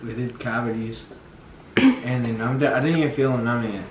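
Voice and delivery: speaking with a numb mouth; words slurred by dental numbness. Real, not acted. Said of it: "He's numb as fuck".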